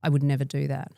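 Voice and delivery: deadpan impression of a pharmacy clerk; unchanging affect. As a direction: say it with no change of expression. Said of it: "she didn't change her affect at all".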